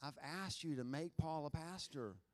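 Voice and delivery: understated re-enacted tearful prayer; imitated weeping prayer. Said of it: "I'm sure just weep before the Lord".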